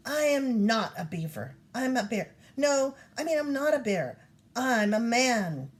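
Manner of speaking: frustrated shout, rising and loud, slowing at the end. Acted. Kanae shouts at the moose, frustrated. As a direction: blurt it out in a flustered rush then insist. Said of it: "Kanae shouted".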